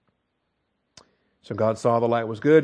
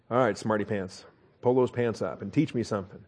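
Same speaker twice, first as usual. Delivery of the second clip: sanctified sarcasm; 3 semitones lower, 6 dB quieter than usual. Acted. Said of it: "sanctified sarcasm".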